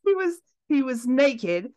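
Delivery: put-on amateur British accent, telling a legend; playful British storytelling accent. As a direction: carry on the tale in put-on British. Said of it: "Gotta stop with the accent".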